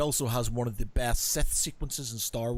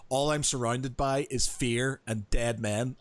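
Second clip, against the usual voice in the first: Vader line; slower than usual. Retold or imitated. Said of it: "it says".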